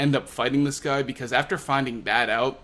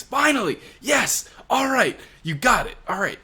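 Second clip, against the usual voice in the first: much higher, louder gleeful cheering; hammed-up giddy villain cheering for the tech; excited Queen; 4 semitones higher, 5 dB louder than usual. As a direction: whoop it up like a kid finally getting his toy. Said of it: "this gets Queen all excited".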